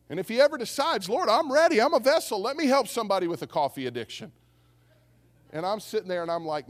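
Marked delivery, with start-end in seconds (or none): 1.1-4.3 high, hammed-up volunteering; mock eager prayer. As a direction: offer yourself up with pretend zeal. Mock offer to God.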